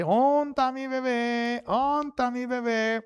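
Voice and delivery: high, drawn-out singsong call; doting mother calling her baby. Retold or imitated. Mother home from work looking for her baby, sugary singsong. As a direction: coo it out slowly, as if searching for a baby.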